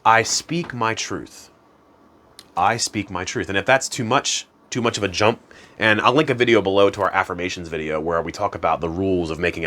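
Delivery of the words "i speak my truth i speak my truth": slow, sincere affirmation; calm sincere affirmation. Shown as a demonstration. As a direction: speak it like you mean it. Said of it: "the best that I think is".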